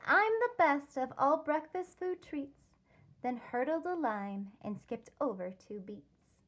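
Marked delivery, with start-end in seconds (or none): 0.1-2.8 higher, louder boastful brag; bragging. Acted. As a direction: crow about being the best. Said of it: "She bragged".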